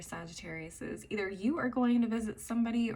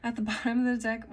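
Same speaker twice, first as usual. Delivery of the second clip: quick, louder, laughing through "deck"; laughing correction; 7 dB louder, much faster than usual. Real, not acted. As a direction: laugh off the slip and correct it fast.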